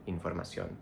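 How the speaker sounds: "información" with the O of -ÓN stressed; Spanish stress. Shown as a demonstration. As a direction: land the stress on the final O of "información". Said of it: "we have to stress the, um, O in".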